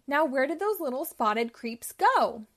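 a touch of nasty Cruella; irritated villain. Acted. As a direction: search around crossly. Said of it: "she said".

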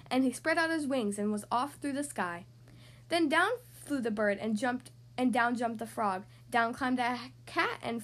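put-on lilting children's storybook reading; story narration. A narrator's reading. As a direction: read a rhyming tale to young children. Reads a picture book aloud.

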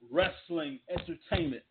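slow, each word of "Wrestling Entertainment" leaned on; "Wrestling" and "Entertainment" spelled out slowly with weight; emphasis on both words. Shown as a demonstration. Host stressing the company name to fans, slow and emphatic. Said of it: "Emphasis on those two words".

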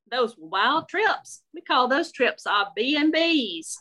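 sweetly nosy Southern belle; Shirley approving Marie's shoes, Southern lady voice. Acted.

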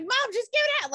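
high-pitched exasperated mock yell; mock yelling, voice jumping high; retold yelling. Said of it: "I was yelling at her".

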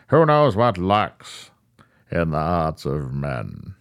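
The Shadow voice. Retold or imitated. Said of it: "The Shadow".

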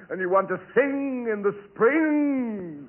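hammed-up slow singsong; milk the line like a ham; overacting. Lawton overacts the rubber diet pitch, slow and singsong. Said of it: "I hear Lawton overacting".

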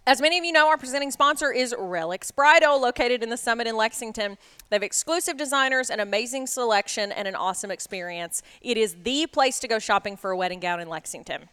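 upbeat sponsor read, pushed hard. Real, not acted. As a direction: sell the sponsor like a radio ad. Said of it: "I feel like I read that really hard".

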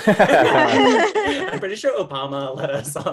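laughing while talking. Real, not acted. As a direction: say it through laughter.

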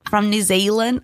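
lightly voiced New Zealand accent; a hint of a New Zealand singer. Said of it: "You gotta do her on something".

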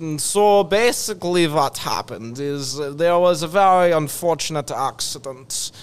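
put-on Russian accent. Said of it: "the Russian accent".

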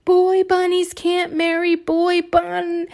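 high, loud angry yell. Acted. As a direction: yell it in protest. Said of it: "they yelled".

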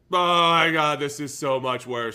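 loud, high, laughing through the complaint; laughing mock panic. A player in his new team, loud laughing panic. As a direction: play a player who regrets his trade. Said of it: "you're like".

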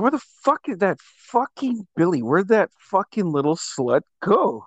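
hammed-up searching for a friend; exasperated party search, playfully acted; mock calling out. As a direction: retell yourself hollering for a missing buddy, lightly. Voicing himself hunting friend at party.

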